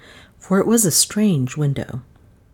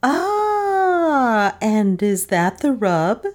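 much higher, surprised cry; wife exclaiming at husband's complaint, higher; 6 semitones higher, much slower than usual. A narrator's reading. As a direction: catch him out with a high exclamation. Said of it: "exclaimed my wife".

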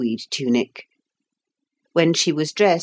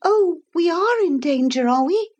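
put-on high, quick startled girl; a girl catching Noah out about the danger; girl's quick reply; 13 semitones higher than usual. A narrator's reading. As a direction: snap it back quickly like a child. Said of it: "said Lucy quickly".

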